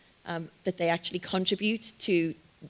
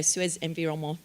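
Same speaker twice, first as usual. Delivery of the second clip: Environnement tried in a French accent, nasal final vowel. Shown as a demonstration. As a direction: have a go at Suez Environnement the French way. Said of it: "my French accent is terrible".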